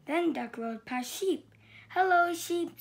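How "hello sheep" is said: high, loud cheerful hello; cheery greeting. Acted. Duck greeting Sheep from his bike, bright and loud. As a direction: sing out a friendly hi. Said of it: "said Duck".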